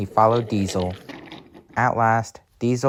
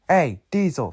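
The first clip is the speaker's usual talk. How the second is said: mildly cross, higher call; 5 semitones higher than usual. Acted. Engine calling after the coach thief, mildly cross. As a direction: call out with a touch of indignation. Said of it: "said Stanley crossly".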